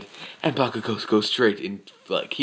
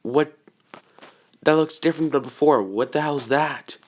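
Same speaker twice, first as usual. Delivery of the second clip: higher, startled questioning; startled disbelief; 5 semitones higher than usual. Acted. Onlookers react to the strange Titan, startled.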